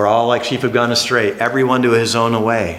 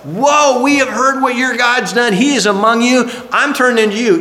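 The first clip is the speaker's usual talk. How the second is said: high, lightly voiced awestruck Rahab; awed Rahab; 10 semitones higher than usual. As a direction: sound like someone who has just heard the news. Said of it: "Rahab was like".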